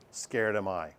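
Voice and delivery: a hint of Yoda, dropped low and soft; lightly voiced Yoda, low and quiet. Teacher showing the class how Yoda talks, low and soft. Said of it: "Yoda always did it backwards. He'd say".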